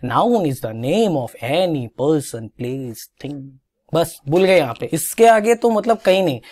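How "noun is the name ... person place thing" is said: slow, sing-song rote recital; schoolkid reciting. Retold or imitated. Teacher mimics kids reciting the noun definition, slow sing-song. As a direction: chant it like a bored schoolchild. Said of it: "तो हम कहते थे".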